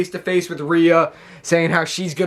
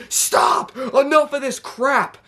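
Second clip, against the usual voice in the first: stop order; 7 semitones higher, slower than usual. Retold or imitated. GM breaking up brawl.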